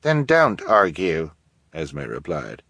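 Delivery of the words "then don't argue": slow, curt dismissal. Acted. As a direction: shut the argument down. Esme curt reply.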